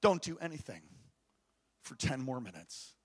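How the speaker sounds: God answering a frantic father; voice of the Lord. Retold or imitated. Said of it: "the Lord says".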